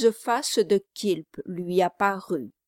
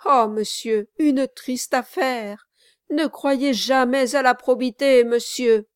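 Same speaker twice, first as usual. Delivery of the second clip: louder, higher, pious lament; sanctimonious lawyer; 5 semitones higher, 6 dB louder than usual. Acted. Brass answers Quilp, mock-pious complaint. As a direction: sigh over the world's wickedness.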